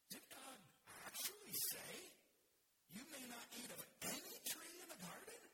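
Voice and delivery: high-pitched disbelief, peaking on "actually"; incredulous serpent. Acted. Serpent questioning the woman, high incredulous voice. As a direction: question it as if astonished, pausing between phrases. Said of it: "asked with great incre-, incredulity".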